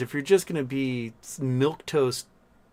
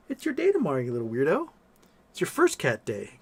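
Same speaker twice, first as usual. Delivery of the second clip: cooing at the kitten; 3 dB quieter than usual. Real, not acted. Talking to a new kitten.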